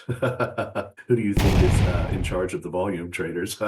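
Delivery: laughing question. Real, not acted.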